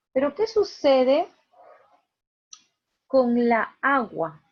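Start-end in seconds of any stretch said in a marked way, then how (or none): 3.1-4.4 "la agua" stretched slowly so the "a a" clash is heard; slow wrong demo. Shown as a demonstration. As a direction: drag out "la agua" to show it sounds bad. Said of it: "un mal sonido".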